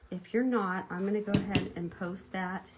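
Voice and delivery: talking while chewing gum; words round a wad of gum. Real, not acted. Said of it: "I can't talk and chew gum".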